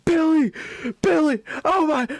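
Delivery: high, loud panicked yell for a friend. Retold or imitated. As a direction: yell for Billy like your foot just got cut. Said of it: "I start yelling".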